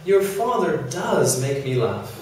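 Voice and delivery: does given weight; emphatic does; stress on does. Shown as a demonstration. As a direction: lean on the word does. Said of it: "we often add an auxiliary verb in the positive for emphasis".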